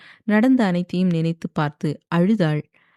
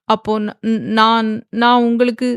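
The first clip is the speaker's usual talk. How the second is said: tearful stammer; 4 semitones higher, 4 dB louder than usual. A narrator's reading. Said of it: "என்று வார்த்தை வராமல் திக்க".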